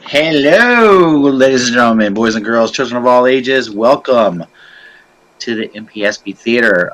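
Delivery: showman welcome, big opening line; announcer voice. Acted. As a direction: ringmaster calling in the crowd. Host opens the show.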